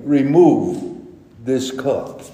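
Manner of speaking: Remove drawn out and emphasized; stress on Remove. Retold or imitated. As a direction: lean hard on "Remove", then ease off. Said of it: "That was the emphasis".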